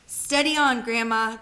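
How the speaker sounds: put-on a boy trying to rein her in; anxious young George. George calms Grandma.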